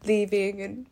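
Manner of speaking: holding back sobs while talking; crying. Real, not acted. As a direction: voice catching with tears. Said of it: "Sorry, I'm crying so much right now".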